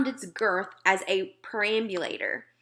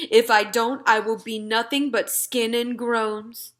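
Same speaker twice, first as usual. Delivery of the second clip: a lightly voiced gentle giant, a touch louder; friendly giant talking to a little girl; BFG giant voice; 3 dB louder than usual. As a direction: play the big friendly giant, earnest and muddled. BFG voice held.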